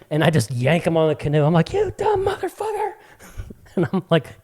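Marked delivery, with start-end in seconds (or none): 1.7-2.9 high, strained mock fury; retold scolding. Owner yanking puppy onto the canoe, exasperated scolding. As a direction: scold the dog in a squeezed high voice.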